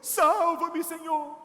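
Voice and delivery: lê o grito mais alto e bem devagar; clamor arrastado na leitura; grito lido. A narrator's reading. (lendo Mateus, o grito de Pedro alto e lento)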